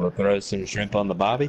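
lightly put-on Australian accent. Friend impressing his mate, in light Australian accent. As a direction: offer it like an easygoing Australian. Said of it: "that was pretty good".

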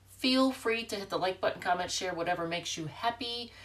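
stuffy congested voice; blocked nose. Real, not acted. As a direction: talk through a blocked nose. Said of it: "I am congested, I apologize, so I, I sound a little funny".

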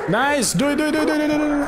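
high, eager urging chant; excited cheering. Real, not acted. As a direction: hype your teammate up. Urging teammate on.

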